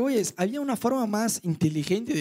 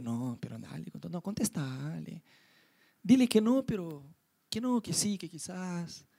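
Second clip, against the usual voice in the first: much softer, wavering self-talk; hushed tempted dithering; 5 dB quieter, slower than usual. Retold or imitated. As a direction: dither under your breath. Tempted inner hesitation. (vacilación en voz muy baja)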